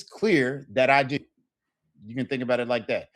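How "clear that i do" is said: slow literal. Shown as a demonstration. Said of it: "word for word what that means".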